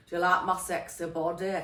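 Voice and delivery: put-on Scottish accent, said softly; mock Scottish burr for a silly line. Joking to Patrick in a Scottish accent. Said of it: "I keep doing this Scottish accent".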